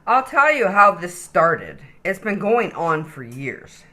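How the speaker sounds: lively, sing-song storybook reading; animated read-aloud for little kids; reading to children. Acted. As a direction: read it like a bedtime picture book. Reads picture book to child.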